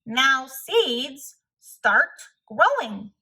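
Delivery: said loudly. Acted. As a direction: order the seeds to grow, loud and slow. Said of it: "said loudly".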